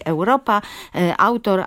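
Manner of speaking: "Europa" as ewropa, "autor" as awtor; u glides into ł in "Europa" and "autor"; correct eu and au glide. Shown as a demonstration. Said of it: "I tak powinniśmy to czytać".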